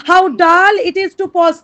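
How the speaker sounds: each word drawn out; slow poem recitation. Shown as a demonstration. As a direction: read the verse very slowly.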